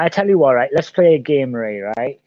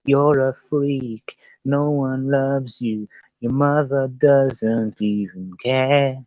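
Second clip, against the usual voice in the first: troll voice; much slower than usual. Pretend. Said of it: "I'm sure the trolls will be in here".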